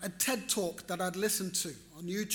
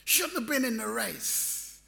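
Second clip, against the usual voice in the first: higher, insistent protest that builds to a shout; husband arguing with his wife over the race, indignant and rising; retold indignant protest; 5 semitones higher, slower than usual. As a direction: argue hard that he shouldn't have raced. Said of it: "And I'm going".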